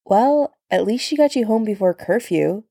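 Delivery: playful ribbing; teasing. Acted. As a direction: tease a friend lightly. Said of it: "Sam teased".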